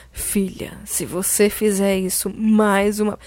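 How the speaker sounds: low, slow mock warning; very angry mother. Shown as a demonstration. Showing how a narrator voices a mother to her daughter, low stern warning. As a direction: mimic a stern mother's restrained threat. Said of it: "minha mãe falou pra mim, muito brava".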